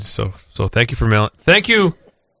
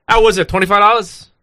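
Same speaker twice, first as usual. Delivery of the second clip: put-on higher, louder New York accent; New York accent, pitched up and loud; dad's New York accent; 7 semitones higher, 4 dB louder than usual. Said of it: "He's like".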